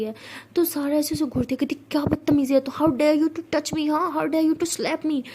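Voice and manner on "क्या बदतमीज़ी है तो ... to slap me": higher, slow, indignant; outraged. Acted. Sara slapped by Siya, slow indignant outrage. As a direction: draw out the outrage.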